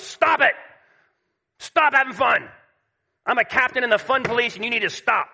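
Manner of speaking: hammed-up cranky old man yelling at the kids; grumpy old man. Preacher imitates a grandpa scolding playing kids, mock grumpy. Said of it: "we picture a grumpy old man".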